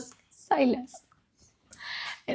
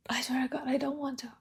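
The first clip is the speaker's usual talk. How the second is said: whispered refusal; 7 dB quieter, faster than usual. Real, not acted. Refusing to revisit sad letters.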